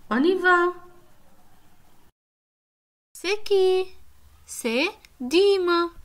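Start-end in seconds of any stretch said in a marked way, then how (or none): 4.4-5.9 Dîme said slowly and clearly; stress on Dîme. Shown as a demonstration. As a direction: stretch the name Dîme for a child. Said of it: "Combien de syllabes entends-tu". (accent sur Dîme, bien articulé)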